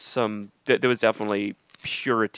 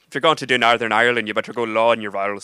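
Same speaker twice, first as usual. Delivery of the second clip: Northern Irish accent; 6 dB louder than usual. Shown as a demonstration. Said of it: "now I sound like I'm drunk".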